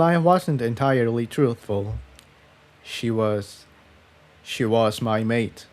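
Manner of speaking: a touch of sorrow; Jigsaw, confessing. Acted.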